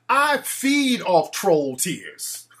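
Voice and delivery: a gloating vampire, very slow. Pretend. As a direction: savour each word like a vampire. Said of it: "I'm like a vampire".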